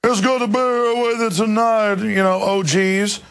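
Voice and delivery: exaggerated imitation of Black vernacular speech; mock Black vernacular accent. Mocking Obama before a black audience, hammed-up Black vernacular accent. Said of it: "in front of a black audience, he's like".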